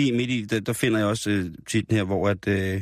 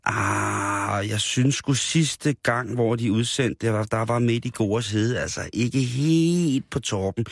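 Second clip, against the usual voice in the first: imagined reader; slower than usual. Pretend. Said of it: "som sidder derude og tænker".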